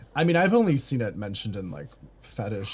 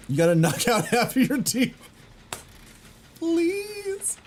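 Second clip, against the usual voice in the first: put-on Cockney accent; 11 semitones higher than usual. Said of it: "dirty chimney sweep Cockney kind of accent".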